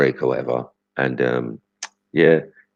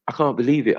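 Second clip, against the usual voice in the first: mock disbelief; 11 semitones higher, faster than usual. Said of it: "I was like".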